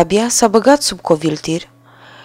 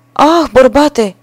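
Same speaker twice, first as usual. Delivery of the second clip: high, loud, slow cry of woe; dismayed wife; 6 semitones higher, 5 dB louder, slower than usual. A narrator's reading. Wife crying out to her husband, loud slow woe. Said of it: "i-a răspuns ea".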